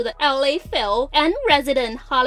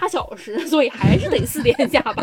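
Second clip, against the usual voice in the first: laughing; 5 semitones higher, 4 dB louder than usual. Real, not acted. Laughing while joking about traffic.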